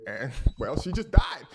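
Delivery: laughing through the news; can't hold back a laugh. Real, not acted. Narrator laughing at the abuser's death. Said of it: "Excuse the laughter".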